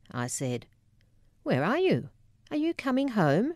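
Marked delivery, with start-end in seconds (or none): 1.4-3.5 mild mother on phone. Retold or imitated. Mum answers the phone.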